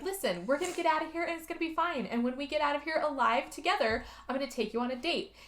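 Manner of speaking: soft, hurried comforting voice; imitated soothing pep talk; mock reassurance. Retold reassurance to a dying friend.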